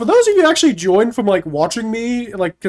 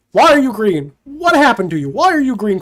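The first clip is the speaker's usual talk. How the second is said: surprised; 4 dB louder than usual. Real, not acted.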